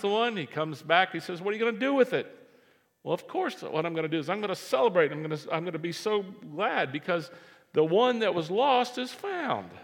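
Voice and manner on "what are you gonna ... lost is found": joyful shepherd. Acted. Shepherd voiced celebrating found sheep.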